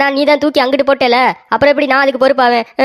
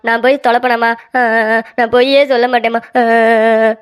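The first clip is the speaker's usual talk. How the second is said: acted whimpering self-defence; childish crying between phrases; tearful explaining. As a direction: plead innocence to mother, breaking into sobs. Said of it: "அவன் அழுதுகிட்டே வந்து".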